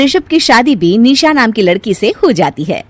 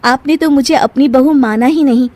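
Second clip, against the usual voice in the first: high-pitched reproach; aggrieved anger; 6 semitones higher than usual. Acted. Bahu accusing saas of favouritism, aggrieved and higher. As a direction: air old grievances at an elder. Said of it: "सास पर बहुत गुस्सा आता".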